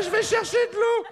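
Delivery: squeaky laughing falsetto. Acted. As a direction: pipe it up high mid-laugh. Squeaky bit while laughing.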